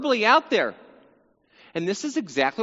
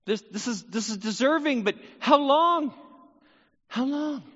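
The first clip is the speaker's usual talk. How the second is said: higher pleading lament; a preacher voicing Asaph, who cries out to God, pleading and higher; Asaph crying out; 5 semitones higher than usual. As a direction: plead with God, asking how long. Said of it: "he's looking in the future".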